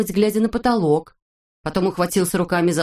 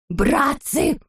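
shout; 7 semitones higher than usual. A narrator's reading. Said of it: "закричал доктор Пилюлькин".

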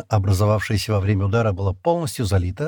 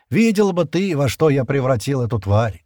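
higher, louder, put-on cheerful boast; forced cheer; 4 semitones higher, 3 dB louder than usual. Stan returns to frightened Shira, forcing a cheerful tone. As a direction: sound bright to lift her spirits. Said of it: "стараясь говорить как можно бодрее".

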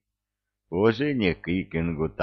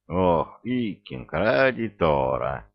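plain reading voice

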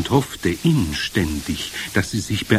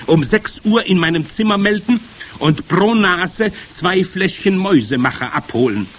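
lively, raised witch voice with swooping pitch; commanding head witch; 6 semitones higher, 4 dB louder than usual. Acted. Head witch instructs her assembled witches before dinner, commanding. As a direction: address the coven loudly, pitch leaping on orders.

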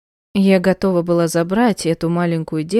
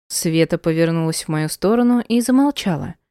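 plain reading voice

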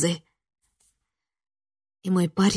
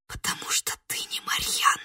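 whispered realization; 10 dB quieter than usual. Acted. Героиня шепчет догадку.

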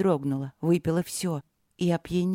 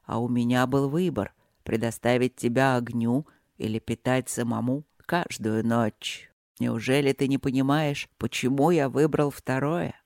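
low dragon husband voice; low, calm rumble; low male voice; 6 semitones lower than usual. Acted.

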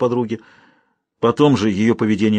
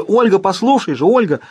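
high, loud call of her name; calling after; 9 semitones higher, 4 dB louder than usual. A narrator's reading. Friend shouting after Olga running away, loud call. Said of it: "закричала ей вслед ей подруга".

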